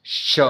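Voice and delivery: "श" as a drawn hiss of rubbing air; fricative sibilant. Shown as a demonstration. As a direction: sound out "श" alone with audible friction. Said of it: "घर्षण यानी कि रगड़". ("श" को हवा की रगड़ के साथ)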